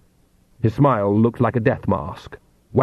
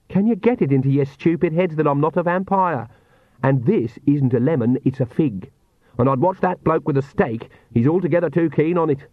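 exasperated character voice, slightly raised pitch; irritated Agnes; 4 semitones higher than usual. Acted. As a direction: tell off the fools around you.

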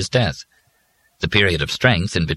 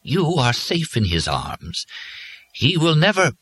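faraway and gentle; 9 semitones higher than usual. A narrator's reading. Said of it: "in a faraway, gentle voice".

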